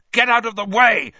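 shouted. A narrator's reading. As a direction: shout at them to move. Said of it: "he shouted at Ron and Hermione".

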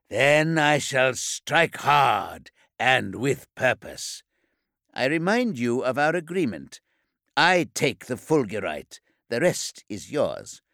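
a firm reminder, weighing each word; stern preacher. Acted. Kor Galek voiced in narration.

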